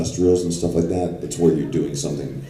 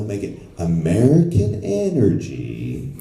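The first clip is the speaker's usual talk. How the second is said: mock client correcting; 6 semitones higher than usual. Client corrects the voice actor, rising high and hammy on best. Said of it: "this is how I want it to sound".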